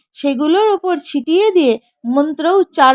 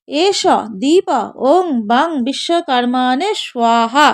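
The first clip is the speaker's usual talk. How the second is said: mantra recitation; 3 semitones lower than usual. Shown as a demonstration. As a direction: intone it like a priest at puja. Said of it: "বলবেন".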